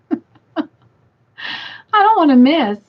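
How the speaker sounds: emphatic. Real, not acted. Emphatic after laughing.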